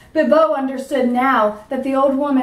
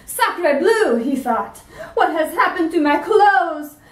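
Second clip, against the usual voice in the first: panicked dentist; 6 semitones higher than usual. Acted. Dentist hiding in an alley, panicking over his clothes. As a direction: sputter in comic alarm.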